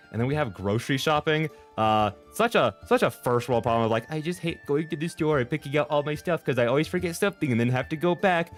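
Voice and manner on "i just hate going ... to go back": whiny complaint. Retold or imitated.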